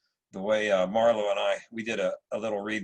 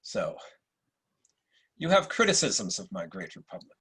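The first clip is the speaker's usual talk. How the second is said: supercilious Marcus Aurelius; 3 semitones lower than usual. Acted. Emperor greets Septimius at court, lightly supercilious. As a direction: play it like a British actor's Roman emperor. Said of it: "a slightly supercilious Marcus Aurelius".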